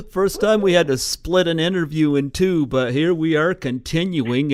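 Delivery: loud and a bit out of breath; breathless, pushing the words out loud. Real, not acted. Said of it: "a little lost of breath there".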